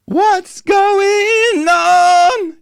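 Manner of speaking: very high, slow, open yawn-like tone. Shown as a demonstration. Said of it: "from that really light yawning place".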